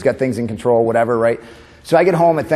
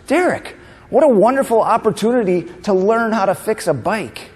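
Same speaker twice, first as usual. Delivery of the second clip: much higher, bright upbeat mom voice; mom's sing-song cheer; 8 semitones higher than usual. Retold or imitated. Mom cheerfully answering her crying son, high sing-song. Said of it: "and she goes".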